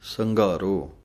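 ਸੰਘਾਰੋ with a Hindi-style gh; ਸੰਘਾਰੋ with a voiced aspirated gh; Gurbani pronunciation. Shown as a demonstration. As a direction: say ਸੰਘਾਰੋ as san-ghaa-ro, no tone. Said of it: "Hindi ਵਾਲੇ ਗਾ ਦੀ ਆਵਾਜ਼ ਦੇ ਕੇ ਬੋਲਣਾ ਹੈ".

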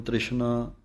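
ਤ੍ਰਿਸ਼ਨਾ with the ਰ and the ਸਿਹਾਰੀ clear and a plain ਸ; teacher's corrected word; correct pronunciation. Shown as a demonstration. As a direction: model ਤ੍ਰਿਸ਼ਨਾ carefully. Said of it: "ਪੈਰ ਦੇ ਵਿੱਚ ਬਿੰਦੀ ਨਹੀਂ ਲਾਉਣੀ".

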